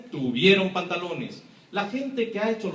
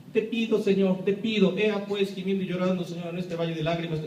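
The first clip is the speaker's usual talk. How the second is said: higher, hammed-up whining plea; mock mournful prayer; 4 semitones higher than usual. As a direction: parody a wailing churchgoer. Parody of mournful church prayer.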